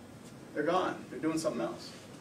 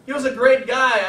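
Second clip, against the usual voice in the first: client's answer; 7 semitones higher, 10 dB louder than usual. Retold or imitated. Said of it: "They go like this".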